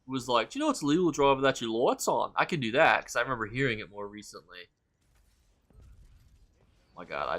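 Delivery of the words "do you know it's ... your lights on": quick, louder mock Australian accent; light Australian accent, pitched up and brisk; Australian police officer. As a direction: imitate an Australian policeman at a traffic stop. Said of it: "Australian police officer".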